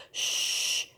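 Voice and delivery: quiet hush for a sleeping bear; shush. Shown as a demonstration. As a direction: hush the class softly.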